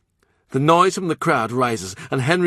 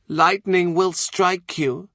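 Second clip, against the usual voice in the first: ominous warning; 8 semitones higher, slower than usual. Acted. Nun's slow warning.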